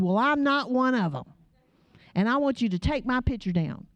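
mildly indignant retold refusal; a touch of teenage defiance, retold; imitating mad daughter. Daughter tells studio lady to remove picture, mock indignant. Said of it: "fuming mad".

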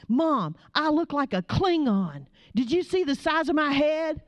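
high, exasperated retold protest; imitating mad daughter. Daughter protests to mom about her looks, mock exasperated. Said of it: "and she is mad".

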